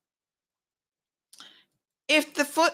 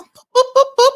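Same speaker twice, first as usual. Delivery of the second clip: much higher, louder playful buzzer noises; mock buzzer beeps; 12 dB louder than usual. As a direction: cut him off with a silly buzzer. Cutting off the impression.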